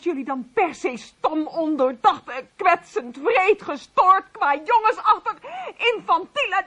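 rising, biting list of insults; wife scolding the husbands; indignant. Acted. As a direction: spit out each insult. Wife furiously lists insults.

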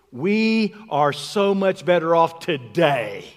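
"today" leaned on, loud and drawn out; slow, emphatic weight landing on "today"; stress on today. Shown as a demonstration. Preacher showing the congregation how we boast, stress on "today". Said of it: "And we emphasize on now".

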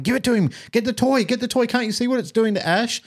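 high-pitched mock family clamour; pleading relatives. Whole family begging uncle to hand over toy, mock frantic. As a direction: mimic panicked relatives urging him to give in, pitched right up. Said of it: "'Cause everyone's going".

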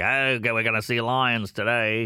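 mock South African safari guide, Australian-sounding; lightly put-on South African accent. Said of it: "he sounds Australian".

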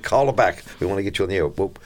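usual speaking voice

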